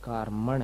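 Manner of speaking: कारमण with a short "a" in the second syllable; corrected कारमण, the "ma" kept short; correct short-vowel pronunciation. Shown as a demonstration. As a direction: say कारमण as KAAR-muhn, short last vowel. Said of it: "कारमाण नहीं है".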